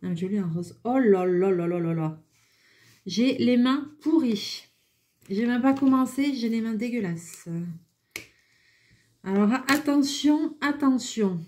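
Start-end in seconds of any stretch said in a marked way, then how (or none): 0.8-7.5 dismayed. Real, not acted. Ink stains all over hands. 9.2-11.4 playful warning. Real, not acted. Warning before opening marker.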